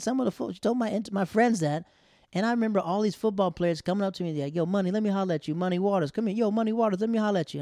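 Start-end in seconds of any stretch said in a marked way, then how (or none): 4.5-7.6 loud, higher-pitched hailing; imitated teammates hollering. Football players coming up to him, hollering.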